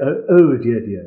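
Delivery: lightly put-on fake English accent; mock a fake English accent for a moment. Shown as a demonstration. Malayali singer mimicking what he won't do, fake English accent. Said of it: "put on some fake accent".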